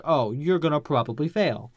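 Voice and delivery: mock posh American headmaster; hammed-up posh American delivery; posh American accent. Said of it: "in his posh American accent".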